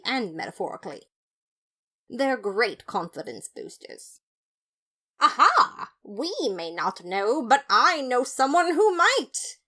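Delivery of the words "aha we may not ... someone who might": much higher, louder gleeful declaration; triumphant eureka. A narrator's reading. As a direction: announce it like a detective's big reveal. Detective has a brainstorm.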